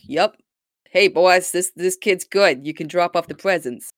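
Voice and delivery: bad Boston accent. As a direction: report to the boss in hammy Boston. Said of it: "like, a bad Boston".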